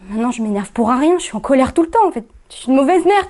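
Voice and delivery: rising in pitch toward the end; worked-up, climbing confession; agitated self-reproach. Acted. Confesses anger and failing as mother.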